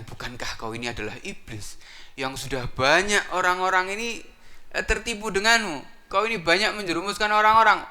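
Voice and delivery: high, loud incredulous scolding; scolding followers. Acted. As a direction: taunt the boss in a high voice.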